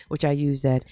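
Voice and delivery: whispering. Acted. Secret aside about the vodka.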